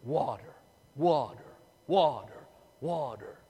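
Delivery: low, weary moaning of each water; parched moan. Acted. Thirsty Israelites in the desert moaning for water, low and weary. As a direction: drag it out like someone dying of thirst. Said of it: "They're going".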